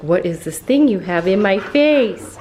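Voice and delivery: a lightly voiced confused dog; dog's voice. Owner speaking for her dog about the camera, lightly voiced. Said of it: "You're like".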